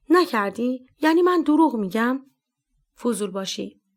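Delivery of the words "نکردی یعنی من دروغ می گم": angry. Acted. Captain to the meddler, angry retort. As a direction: snap back as if called a liar. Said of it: "اصغری با خشم و غضب گفت".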